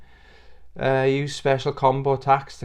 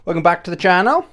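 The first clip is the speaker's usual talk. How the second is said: higher goofy presenter voice, slow at times; silly put-on voice; 5 semitones higher, 4 dB louder than usual. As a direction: ham up a cheesy host voice. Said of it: "I'm not gonna do the whole video like this".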